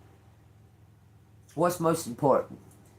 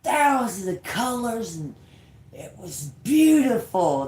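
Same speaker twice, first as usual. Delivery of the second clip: put-on awed child; 6 semitones higher than usual. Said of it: "That's what he said".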